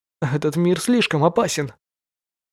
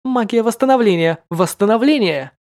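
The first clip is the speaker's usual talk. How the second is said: higher, louder incantation; spell casting; 6 semitones higher, 4 dB louder than usual. Acted. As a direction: call out the spell with hope. (выкрик заклинания)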